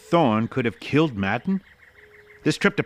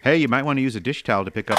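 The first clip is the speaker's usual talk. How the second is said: quick raised warning call; hurried warning; faster than usual. Acted. Bob warning Thorne off the hot coffee pot, hurried and raised. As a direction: call out fast before he grabs it.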